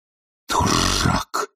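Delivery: a low, slow, heavy "Дурак!"; firm angry. A narrator's reading. Master scolding his servant, a firm angry word. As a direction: land the insult hard and low. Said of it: "крепко произнёс Обломов".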